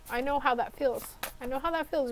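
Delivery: quiet, moved and close to tears; emotional. Real, not acted. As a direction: say it softly, really touched. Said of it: "I'm getting a little emotional here".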